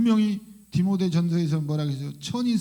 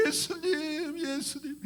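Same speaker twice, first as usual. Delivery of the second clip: high, tearful cries swelling into a shout; imitated wailing; 9 semitones higher, 3 dB louder, slower than usual. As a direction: act out a convert wailing to Jesus, voice pitched high. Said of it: "막 이런 통곡".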